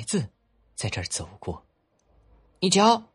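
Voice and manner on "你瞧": put-on high, loud child's call; excited child. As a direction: point it out eagerly like a boy. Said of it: "一个孩子说".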